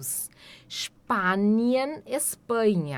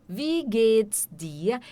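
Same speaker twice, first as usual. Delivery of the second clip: "Wie geht's dir?" said slowly but more joined up; slowed demo; much slower than usual. Shown as a demonstration. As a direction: model "Wie geht's dir?" at a slow, even pace.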